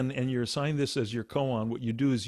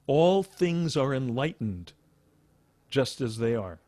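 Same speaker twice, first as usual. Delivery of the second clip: Buddha's exact words; slower than usual. Retold or imitated. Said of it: "what he is actually recorded as having said is".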